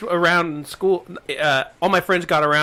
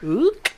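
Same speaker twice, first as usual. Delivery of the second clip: short, higher "oop"; imitated choked noise; 7 semitones higher than usual. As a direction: make a little poked-throat noise. Imitating poke in Adam's apple.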